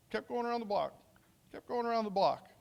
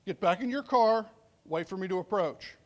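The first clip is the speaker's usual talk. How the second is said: firm command; 3 dB louder than usual. Retold or imitated. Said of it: "I start giving him directions".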